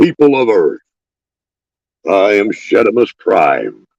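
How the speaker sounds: slow, drawn-out, proclaiming delivery with swooping pitch. Joking about having an Optimus Prime thing going: Optimus Prime voice. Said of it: "an Optimus Prime thing going".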